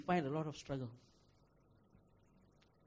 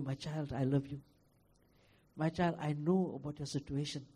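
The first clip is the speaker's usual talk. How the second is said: put-on soft, hushed and loving, as God to a child; quiet loving reassurance; tender voice of God; 4 semitones lower, 5 dB quieter than usual. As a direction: speak it gently like a father comforting. God speaking tenderly to believer.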